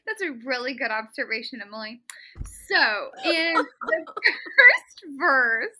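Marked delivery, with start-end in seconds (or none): 2.7-5.7 laughing. Real, not acted. Laughing mid-sentence.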